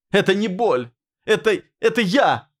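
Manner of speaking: high breaking yell; shout. A narrator's reading. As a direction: hurl the words out. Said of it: "выкрикнула Мила".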